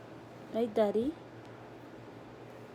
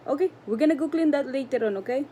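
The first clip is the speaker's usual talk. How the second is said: pet talk; 4 semitones higher, 6 dB louder, faster than usual. Real, not acted. Soothing angry cat, high fast.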